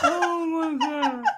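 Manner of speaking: slow, high, laughing. Real, not acted. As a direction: gasp it out through laughter. Cracking up at profile.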